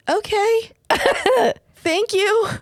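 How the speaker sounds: high pitched laughing okay, thank you. Retold or imitated. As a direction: giggle out a stunned thank you. Overwhelmed thanks after hard advice.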